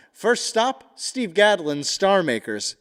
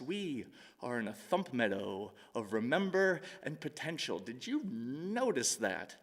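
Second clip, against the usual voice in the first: tender poem reading; 3 semitones lower, 6 dB quieter than usual. Acted. Tender closing section of poem.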